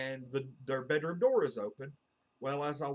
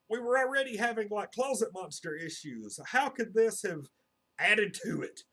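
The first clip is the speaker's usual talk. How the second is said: higher and louder disbelieving question; incredulous retort; 7 semitones higher, 5 dB louder than usual. Retold or imitated. Answering his dad about the hidden fire, incredulous. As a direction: throw it back in mock disbelief.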